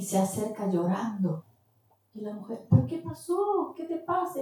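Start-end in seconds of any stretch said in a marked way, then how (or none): 2.7-4.4 put-on high, alarmed question to a crying girl; startled concern, pitched up; concerned surprise. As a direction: ask in surprise what's wrong. Woman asks the crying clerk.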